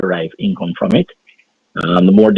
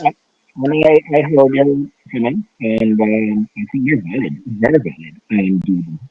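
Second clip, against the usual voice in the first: muffled. Real, not acted. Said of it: "you sound like you're muffled".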